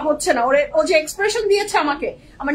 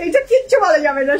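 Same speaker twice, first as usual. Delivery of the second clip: quoting Nahid; 6 dB louder than usual. Retold or imitated. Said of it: "Nahid বলে দিয়েছে".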